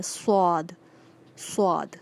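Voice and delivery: صاد with a squeezed, heavy s; teacher drilling a pressed صاد; pressed saad. Shown as a demonstration. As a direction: push صاد out pressed from the mouth. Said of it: "تھوڑا دبا کر اپنے منہ سے صاد کی آواز نکالنی ہے".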